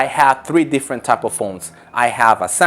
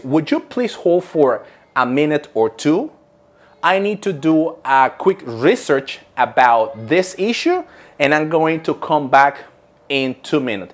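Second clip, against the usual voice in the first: customer service voice. Shown as a demonstration. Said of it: "the expression will be something like this".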